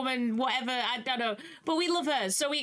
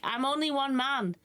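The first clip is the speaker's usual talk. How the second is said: higher-pitched plaintive complaint; overwhelmed protest; 4 semitones higher than usual. Acted. Poor Arthur alone with too much work, plaintive. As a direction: plead being overworked, voice raised in pitch.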